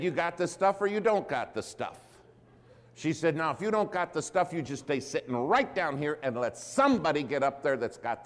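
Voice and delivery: lightly voiced no-nonsense church lady; lecturing church lady.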